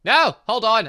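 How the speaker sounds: loud high no, hold on; panicked shout. Real, not acted. Gamer stopping a wrong choice, loud panicked shout. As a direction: yell to stop it.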